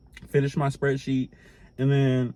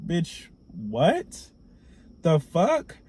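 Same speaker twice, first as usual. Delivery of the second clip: higher, stunned disbelief; caught off guard; 4 semitones higher, much slower than usual. Retold or imitated. Hearing the false accusation from his boss, shocked disbelief. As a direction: react like the floor just dropped. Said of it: "I was so caught the fuck off guard".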